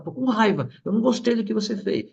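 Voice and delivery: lightly imitated cross little child; child naming anger. Five-year-old son telling dad what he disliked, mildly cross. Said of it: "agora ele fala".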